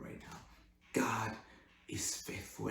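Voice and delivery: quiet intimate preacher voice; hushed preaching. Acted. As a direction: drop to a hush to draw them in.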